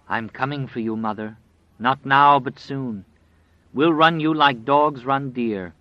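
menacing, grinning wolf voice; taunting wolf. Acted. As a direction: sneer it out like a wolf.

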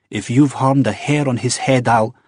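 high, heated warning, cut off; fierce threat. Acted. Wife to Jamie, a heated cut-off threat. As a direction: threaten him, then get interrupted.

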